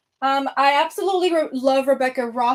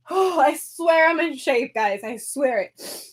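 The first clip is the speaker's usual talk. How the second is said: breathless protest; slower than usual. Real, not acted. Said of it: "I'm so out of breath".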